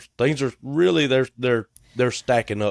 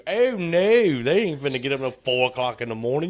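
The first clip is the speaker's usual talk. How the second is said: high, fast, hammed-up protest; mock outraged disbelief; 6 semitones higher than usual. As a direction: play the family as appalled by the early start. Voicing his family's outraged reply.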